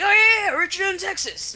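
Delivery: high, bright-eyed excited recognition; mock excited. Stranger excitedly naming the same hometown, high mock excitement. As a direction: pitch it up like you just placed the name.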